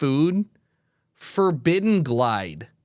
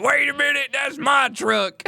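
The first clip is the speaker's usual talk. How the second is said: mock shocked shout; 9 semitones higher than usual. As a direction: shout it like a startled owner. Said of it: "fans are like".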